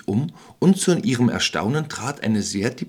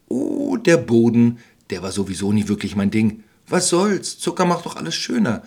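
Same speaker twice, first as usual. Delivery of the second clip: hammed-up witch, shrugging; careless witch. Witch shrugs off Gretel's worry, airy and careless.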